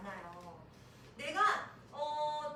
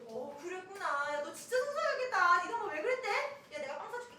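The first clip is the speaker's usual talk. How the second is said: acted sympathy; 5 semitones higher, 5 dB louder than usual. Friend consoling child scolded by mom, animated sympathy. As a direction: imitate a supportive friend, higher and animated.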